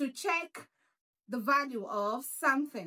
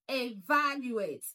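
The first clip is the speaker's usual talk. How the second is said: slow "Evaluate", stressed on VAL; stress on second syllable. Shown as a demonstration. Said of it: "stress is on the second syllable".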